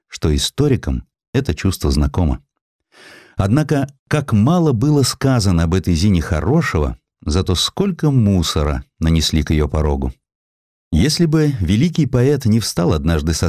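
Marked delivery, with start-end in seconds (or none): none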